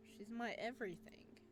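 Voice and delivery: a fond, hushed confession; tender whisper. Acted. Florist whispering fondly about his wife.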